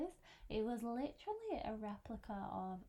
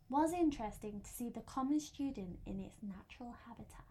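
hushed nature documentary narrator; David Attenborough. Pretend. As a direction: whisper it like a wildlife documentary. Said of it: "it's going really David Attenborough vibes here".

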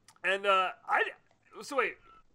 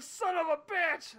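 slow, higher drawn-out curse; retold curse; 8 semitones higher, 3 dB louder, slower than usual. Fan spotting the spoiled name, cursing slowly. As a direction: let the curse stretch out. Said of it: "I'm like".

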